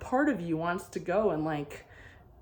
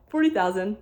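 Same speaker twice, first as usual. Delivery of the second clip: loud insistence; 4 semitones higher, 9 dB louder than usual. Retold or imitated. Seller insists on higher price.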